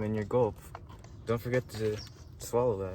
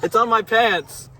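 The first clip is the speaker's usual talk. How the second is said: louder upset wail; loud dismayed cry; 9 semitones higher, 9 dB louder than usual. Real, not acted. Repeated spill complaint.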